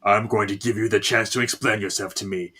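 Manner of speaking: controlled menace. Acted. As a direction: deliver a restrained threat. Possessed daughter coldly confronts victim.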